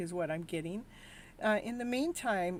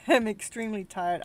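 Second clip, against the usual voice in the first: louder, laughing through the words; 6 dB louder than usual. Real, not acted. Streamer repeating to her chat that she is tired, laughing. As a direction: laugh at your own exhaustion.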